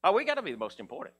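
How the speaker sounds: hint of smug brothers arguing; James and John. Disciples arguing on the road about who matters most, mock boastful. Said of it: "I can hear James and John".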